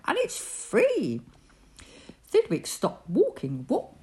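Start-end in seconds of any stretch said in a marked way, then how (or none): 0.1-1.2 higher, slow, amused; laughing. Acted. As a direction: chuckle it out. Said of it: "laughed the bug".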